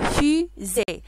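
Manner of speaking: FUSÉE in two separate beats, fu, zée; syllable by syllable. Shown as a demonstration. Teacher confirms the second syllable of fusée, saying it split. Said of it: "C'est la deuxième syllabe".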